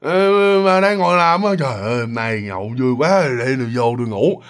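lightly voiced drunk uncle, slurred; drunk slurring uncle. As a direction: slur it like a tipsy uncle. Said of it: "giọng lè nhè rồi".

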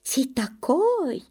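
put-on German accent, high and slow, surprised; stern surprised German iceman; удивлённо строго, с немецким акцентом. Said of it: "говорит удивлённо строго".

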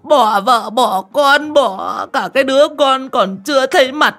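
high, loud, slow keening; a mother keening over her dead son's coffin; wailing lament. A narrator's reading. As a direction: wail over the coffin as if torn apart. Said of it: "khóc như xé gan xé ruột".

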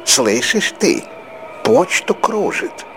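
испуганно-злой выкрик; angry outburst. A narrator's reading. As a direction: hurl it at her, spooked and furious. Angry husband at wife.

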